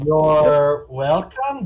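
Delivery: slow drawn-out sarcastic thanks. Acted. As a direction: stretch it out smugly.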